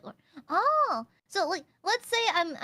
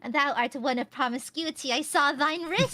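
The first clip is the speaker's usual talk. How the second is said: Victorian gentleman voice. Pretend. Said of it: "Victorian era man".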